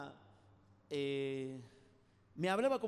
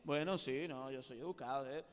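polite mask voice; 7 semitones lower than usual. Retold or imitated. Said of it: "tiene que ponerse máscara". (voz de máscara educada, más grave y suave)

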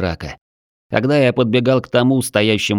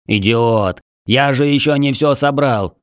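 offended huffing; 3 semitones higher than usual. Acted. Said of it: "Обиженно запыхтел Шпак".

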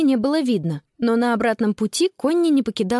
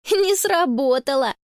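put-on higher, amused child voice; giggly teasing girl; 4 semitones higher than usual. A narrator's reading. Connie teasing grandpa's failed trick, amused. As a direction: tease him lightly. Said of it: "Конни прыснула".

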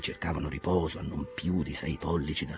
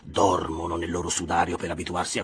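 contemptuous captain. Acted. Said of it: "fattosi a un tratto sprezzante".

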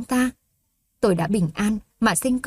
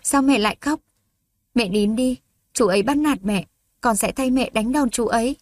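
put-on a child gently consoling his crying mother; a hint of a little boy's voice; little boy comforting mom; 3 semitones higher than usual. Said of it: "an ủi".

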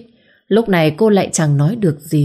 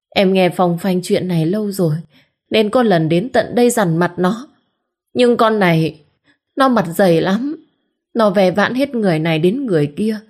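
tearful complaint; 3 semitones higher than usual. Acted. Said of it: "vừa khóc lóc, vừa kể khổ".

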